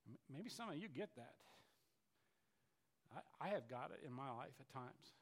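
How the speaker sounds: quiet confession. Real, not acted. Preacher confiding to the congregation, soft and intimate. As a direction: draw the congregation close, hushed.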